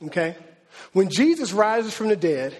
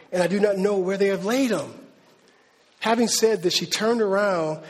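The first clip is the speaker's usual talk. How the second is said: scripture reading. Acted. Preacher reading John's Gospel to the church, measured reading. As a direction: read the passage out to the congregation. Reads scripture passage aloud.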